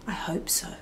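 venomous whisper. Acted. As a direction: breathe it out like a curse. Whispered curse.

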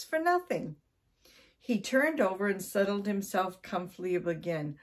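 animated read-aloud storytelling; story narration. A narrator's reading. Storyteller reading about Mister Twiddle and the cat, animated narration. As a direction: tell it clearly with lively stress.

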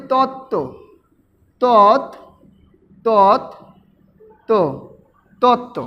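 তত্ত্ব broken into তৎ, then তো, then joined; syllable demo. Shown as a demonstration. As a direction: teach তত্ত্ব as তৎ-তো with pauses. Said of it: "কীভাবে উচ্চারণ করি?". (তত্ত্ব ভেঙে তৎ-তো উচ্চারণ)

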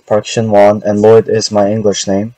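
ordinary talk

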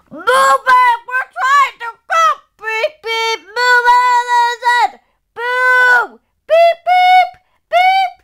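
high, shouted pretend road rage; impatient driver. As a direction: yell and honk like stuck drivers. Acting drivers stuck in traffic.

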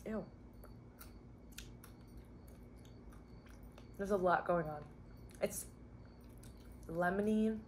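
chewing while speaking; talking through a bite; mouth full. Real, not acted. Seen 0: bit chip at -5; mouth working, grimacing while talking.

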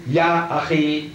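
Ya akhi slowly, with Ya held up front; opening exclamation. Shown as a demonstration. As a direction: lean on Ya at the start of Ya akhi. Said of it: "we begin with an exclamation".

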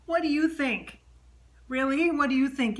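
acted-out rhetorical comeback; incredulous retort. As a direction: throw it back as an obvious question. Retort from the comedian she channels.

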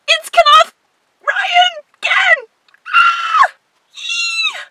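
high, loud squealing names; ecstatic squeals. Real, not acted. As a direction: shriek with fangirl joy. Unboxing the doll, squealing.

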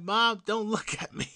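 high, loud plea to mom; retold loud protest. Son caught by mom's look, high loud mock protest.

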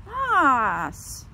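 loud, drawn-out falling call; long scolding wail; reproachful. Real, not acted. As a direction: call out the cat's name in dismay. Scolding the cat.

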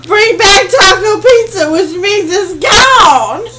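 tearful reading, breaking into a wail; reading out the bad news between sobs; crying. Real, not acted. Reading the Google result to her family, crying.

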